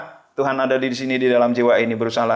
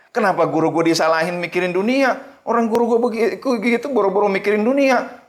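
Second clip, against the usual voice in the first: higher-pitched, indignant protest; mildly acted exasperation, pitch climbing; annoyed disciple; 6 semitones higher than usual. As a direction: grumble in offended disbelief. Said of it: "Wah, ini kesel dia".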